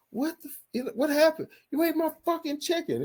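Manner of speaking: hammed-up angry accusation, pitched high; imitated furious yell. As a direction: yell it like a stepdad robbed of his chicken. Stepdad yelling over eaten chicken.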